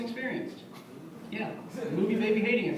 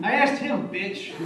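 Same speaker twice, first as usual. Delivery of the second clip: serious glare; 3 semitones higher, 4 dB louder, much slower than usual. Retold or imitated. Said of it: "Get really serious and glare at her".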